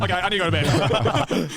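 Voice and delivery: laughing. Retold or imitated. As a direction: laugh while giving in to sleep. Retelling collapse, laughing.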